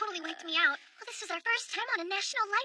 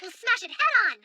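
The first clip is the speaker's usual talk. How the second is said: overacted anime dub; 3 semitones higher, 8 dB louder than usual. Rallying declaration.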